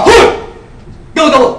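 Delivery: loud squawk then a laughing gobble; turkey gobble. Retold or imitated. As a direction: mimic the turkey, loud and amused. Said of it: "Pag ginagawa". (malakas na gaya ng pabo)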